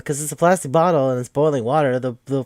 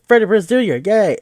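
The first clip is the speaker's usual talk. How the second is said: high, loud fan cheer; gleeful little hooray, pitched up; playful cheering; 8 semitones higher, 8 dB louder than usual. Real, not acted. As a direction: call out the name like an excited fan. Mock cheer for a favourite actor.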